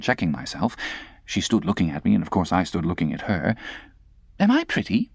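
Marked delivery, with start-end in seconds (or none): 4.4-5.1 put-on taunting girl. Estella taunting.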